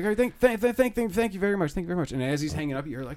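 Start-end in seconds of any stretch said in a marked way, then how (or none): 0.0-2.1 higher, louder flustered PA voice; flustered guy on the intercom; panicked announcer. Retold or imitated. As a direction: stammer it out like a rattled hotel staffer. Flustered announcer stammering thanks.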